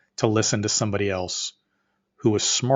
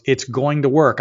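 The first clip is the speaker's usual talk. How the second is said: louder, higher retort imitating the partner; emphatic insistence; 5 semitones higher, 7 dB louder, slower than usual. Partner answering his doubts, insistent retort. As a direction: push "going to work" firmly, each word stressed.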